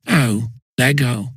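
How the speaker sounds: slow startled cry of alarm; alarmed roar. A narrator's reading. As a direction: blurt it out in alarm. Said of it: "roared Bunter in alarm".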